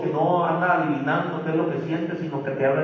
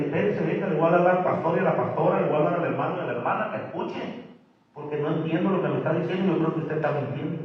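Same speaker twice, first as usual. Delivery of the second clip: brisk, faster doubting reply; suspicious challenge; faster than usual. Shown as a demonstration. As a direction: model how to push back. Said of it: "dígale".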